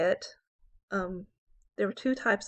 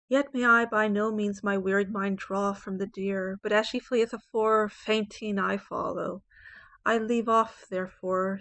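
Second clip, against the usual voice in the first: poem reading. Acted. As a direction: read the octave like a sonnet performance. Teacher reads the sonnet aloud.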